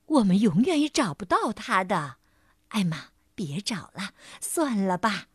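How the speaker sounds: low, resigned elephant; giving up. Acted. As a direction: give up, voice dropping away. Elephant gives up the search.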